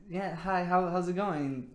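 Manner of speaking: easy, slowed-down hello; calm greeting. Shown as a demonstration. Showing guys a calm, easy greeting to a girl. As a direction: greet them calmly, no rush. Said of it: "calm it down a little bit".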